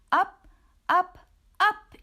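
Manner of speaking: rising excited call. A narrator's reading. Narrator tossing Scapito up, excited. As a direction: launch him skyward.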